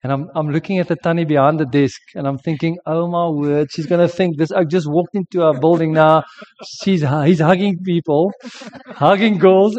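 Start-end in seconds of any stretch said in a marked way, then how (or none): 2.9-9.8 flustered inner thought. Retold or imitated. Panicked inner thought, embarrassed.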